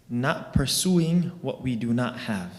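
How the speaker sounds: pursuing drawn out and leaned on, slowly; slow teaching stress on pursuing. Shown as a demonstration. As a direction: give the word pursuing the weight of the line, slowly. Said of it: "emphasizing the word pursuing".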